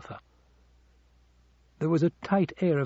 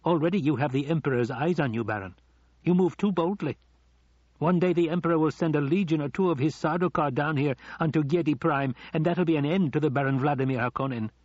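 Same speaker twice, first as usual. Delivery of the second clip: higher, needling henchman's voice; sneering adviser; 3 semitones higher than usual. Acted. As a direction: warn the master with a taunting edge. Piter taunts the Baron.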